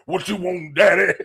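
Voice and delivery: mimicking an old Southern bus driver. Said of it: "like an old Southern nigga that drive the bus".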